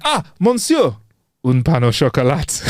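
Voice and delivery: proud hammed-up French; mock French accent. Waiter answering in a mock French accent. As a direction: nail the French like a local. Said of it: "and then he went".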